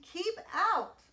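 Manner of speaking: high, loud angry shout; grumpy cactus shouting keep out; angry yell. A narrator's reading. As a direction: drive the tortoise away. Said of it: "yelled Hank".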